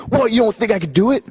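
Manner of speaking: high put-on voice, offended; mock defensive Scotty. Scotty bristling at his partner, high put-on voice. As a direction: act wounded pride.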